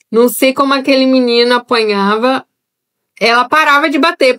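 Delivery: ordinary talk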